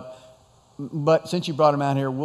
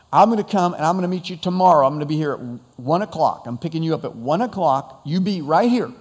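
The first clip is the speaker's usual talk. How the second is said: firm, emphatic instructions; spelling it out for someone unreliable; making it really clear; 3 dB louder than usual. Retold or imitated. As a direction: lay down the plan point by point. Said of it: "I'm gonna make it really clear".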